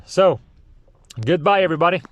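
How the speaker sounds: loud, high-pitched goodbye; yelled sign-off. Real, not acted. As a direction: call out the farewell to everyone. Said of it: "Am I yelling too much?".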